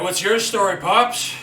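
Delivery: high loud cocky greeting; cocky rocker. Acted. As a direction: hail the old man brashly. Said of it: "He's like".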